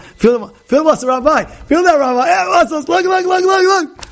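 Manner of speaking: a proud gym guy pushing the rabbi to feel his muscles; boastful gym guy. Retold or imitated. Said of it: "You know the guy working out?".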